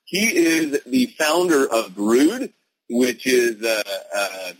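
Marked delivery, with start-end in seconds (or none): 0.1-2.5 slow, announcing game show host. Real, not acted. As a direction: present the guest like a TV host. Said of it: "I suddenly started talking like a game show host".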